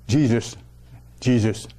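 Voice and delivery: "Jesus" repeated with an English J and long ee; English pronunciation. Shown as a demonstration. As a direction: demonstrate "Jesus" as JEE-zus, one at a time. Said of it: "comment on prononce en anglais".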